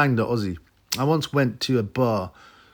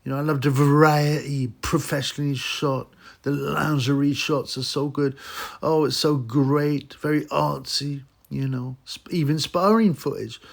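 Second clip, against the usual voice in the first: lightly raised, gushing mock reviewer voice; 4 semitones higher than usual. Vlogger mocking the reviewer's gushing praise, lightly raised. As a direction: gush over it like a smitten fan, a bit higher. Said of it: "They're going about".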